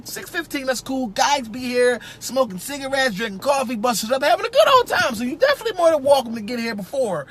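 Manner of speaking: a hint of a chatty hiring manager laying out the rules; lightly voiced interviewer. Interviewer briefing a new technician, lightly voiced and chatty. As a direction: play the boss rambling through the shift times. Interviewer explaining the job schedule.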